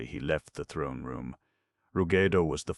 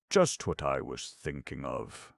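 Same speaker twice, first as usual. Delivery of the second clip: cheerful. Acted. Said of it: "admitted Calico cheerfully".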